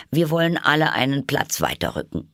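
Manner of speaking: high put-on voice, announcing; bossy Hatter. A narrator's reading. Hatter makes the table move up, high and bossy. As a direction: order everyone along in a high voice. Hatter orders everyone along.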